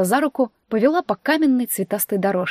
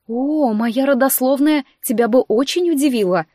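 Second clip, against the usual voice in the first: higher, louder, biting irony; caustic remark; 4 semitones higher, 4 dB louder than usual. Acted. Heroine caustically answering the sister's insult. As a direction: jab back with venom. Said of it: "едко заметила я".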